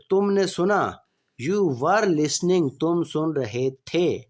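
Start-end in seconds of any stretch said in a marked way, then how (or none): 1.5-2.7 slow, clear dictation pace; slow classroom example sentence; slow example read. Shown as a demonstration. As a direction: spell it out slowly for students. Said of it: "teacher reading tense example".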